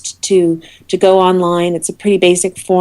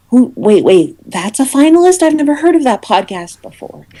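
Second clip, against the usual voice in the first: half-acted disbelief; mock surprise; 5 semitones higher than usual. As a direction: act out spotting an unknown finalist. Imagined reaction to unknown finalist.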